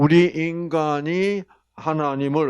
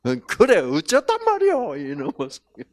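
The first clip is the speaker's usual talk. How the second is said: mock retort; 2 semitones higher, 4 dB louder than usual. Wife snapping back, Gyeongsang.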